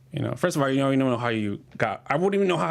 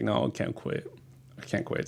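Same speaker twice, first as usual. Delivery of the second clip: quiet self-talk; 6 dB quieter than usual. Retold or imitated. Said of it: "I was like".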